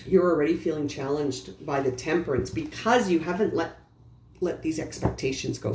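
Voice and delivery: talking through hiccups; little hiccups breaking the words. Real, not acted. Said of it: "Sorry, I have the hiccups".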